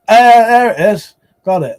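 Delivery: sudden lift, pleased to spot it; excited find. Real, not acted. Streamer spots the website he was searching for, excited. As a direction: relief at finally finding the page. Finding the lost website online.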